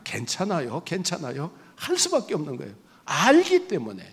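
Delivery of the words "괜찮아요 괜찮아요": soft, much quieter, swallowing the pain; forced calm. Retold or imitated. Pastor hiding his pain from the nurse, soft forced calm. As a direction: murmur it through the pain so no one hears. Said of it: "그냥 아파도 꼭 참고".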